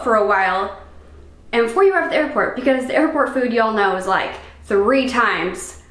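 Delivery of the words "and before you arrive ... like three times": slight southern accent; light southern twang slipping out. Real, not acted. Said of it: "Did I have, like, a southern accent right there?".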